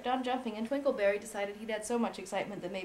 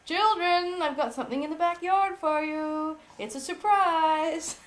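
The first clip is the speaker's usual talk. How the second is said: louder, higher, teasing announcement; excited daddy; 7 semitones higher, 8 dB louder, slower than usual. Acted. Father calling the children to a backyard surprise, excited. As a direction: dangle the surprise slowly. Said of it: "Daddy came downstairs and said".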